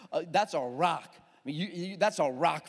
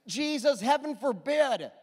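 mild rebuke; 5 semitones higher, 3 dB louder than usual. Retold or imitated. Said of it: "begins to reprimand him".

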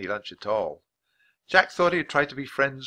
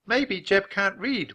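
put-on slow, higher-pitched kindly boy; 10 semitones higher, 3 dB louder, slower than usual. A narrator's reading. Boy excusing another pupil to teacher, kindly. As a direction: suggest it gently to the teacher. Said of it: "said in a kind voice".

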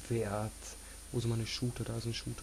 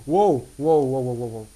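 shocked; 12 dB louder than usual. Real, not acted. Shocked exclamation.

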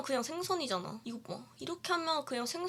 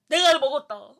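mock villain; 9 dB louder than usual.

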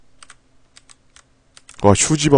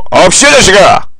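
1 mock scolding shout; 9 semitones higher, 5 dB louder than usual. Scolding a game character.

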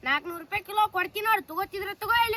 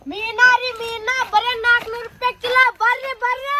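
vendor's call; 4 dB louder than usual. Acted. Fish seller hawking louder.

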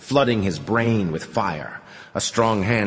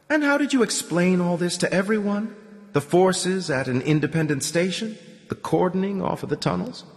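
lightly voiced old man; 10 semitones higher than usual. A narrator's reading. Homer questioning the Commandant.

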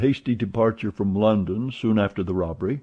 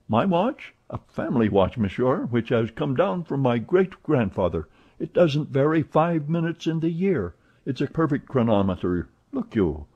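a hint of a proud servant, higher; lightly voiced proud valet; 5 semitones higher than usual. Passepartout boasting of his watch to Fix, lightly voiced. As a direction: defend the family watch, a little higher.

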